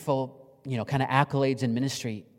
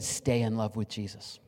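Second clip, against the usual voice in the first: softer, slow tender last words; reverent quiet; 2 semitones lower, 6 dB quieter than usual. Retold or imitated. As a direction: say it as a dying man's blessing.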